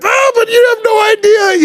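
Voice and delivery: high, loud fan squeal; hammed-up starstruck shout; fanboy gush. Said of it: "I couldn't even be like".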